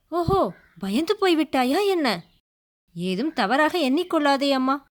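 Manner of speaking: a lightly voiced young prince, formal and polite; lightly voiced gentle prince; prince's voice. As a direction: reassure the startled girl, courteous. Prince speaks to startled maiden.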